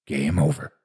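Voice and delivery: low, impersonal computer announcement. A narrator's reading. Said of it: "the computer voice said".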